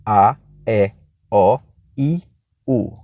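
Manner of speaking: each vowel set apart with a pause; listing vowels one by one. Shown as a demonstration. Teacher listing the vowels in order. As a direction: count the vowels off for the class. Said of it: "Vamos lembrar a ordem das vogais?".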